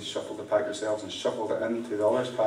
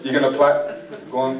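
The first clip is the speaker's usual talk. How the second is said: laughing tease; 4 semitones higher, 8 dB louder than usual. Real, not acted. Teasing volunteer Liam, laughing.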